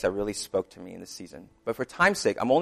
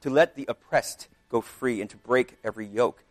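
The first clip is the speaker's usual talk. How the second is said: scripture reading. Acted. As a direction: proclaim the text like a preacher. Reading Isaiah 58 aloud.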